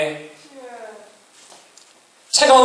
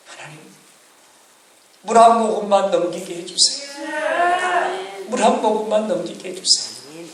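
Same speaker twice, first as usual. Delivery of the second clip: tearful prayer; 5 dB quieter than usual. Retold or imitated. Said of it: "눈물로 기도하는 이도".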